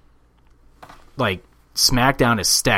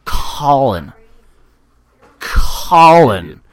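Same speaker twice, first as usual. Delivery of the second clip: calling out; 2 semitones higher, 5 dB louder, much slower than usual. Pretend. Calling name repeatedly.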